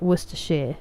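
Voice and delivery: Worcestershire said as "WUUS-tuh-sheer"; correct county pronunciation. Shown as a demonstration. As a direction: finish Worcestershire on "sheer", three syllables. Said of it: "Worcester is the city, but".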